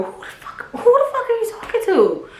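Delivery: a hammed-up yell retold with laughter; zero to a hundred yell. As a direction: snap from calm into a yell. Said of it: "I go zero to a hundred".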